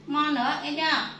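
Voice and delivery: loud, firm warning; stern scolding. Real, not acted. Mother warning her other child not to do it again, loud and stern. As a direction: press the point hard.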